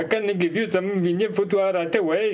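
imitating an Indian waiter with a put-on Indian accent. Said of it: "kan du inte härma en, en indier".

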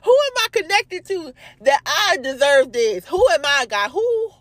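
high, fervent plea to God; high-pitched, overwhelmed preaching; impassioned questioning. Retold or imitated. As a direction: cry out the question in wonder.

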